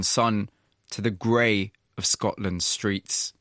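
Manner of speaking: measured, scripted presenter read over music; polished broadcast storytelling voice; radio documentary narration. Acted. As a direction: set up the story like a radio feature host.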